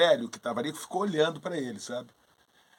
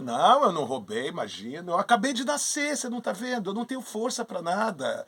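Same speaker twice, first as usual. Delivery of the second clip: mock-innocent denial, rising high; cynical innocence; 5 semitones higher than usual. Newborn Hermes denying the cattle theft to Jupiter, cynically innocent. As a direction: plead helpless newborn, lightly put on. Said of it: "Muito cínico".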